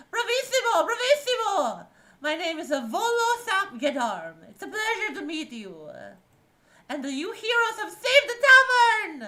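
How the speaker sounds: high, loud, gushing praise; flamboyant little man. Acted. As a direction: burst in like a showy bard. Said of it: "He says".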